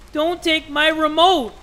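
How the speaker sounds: put-on high, drawn-out childish protest; put-on bratty kid voice; child's whine. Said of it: "He's like".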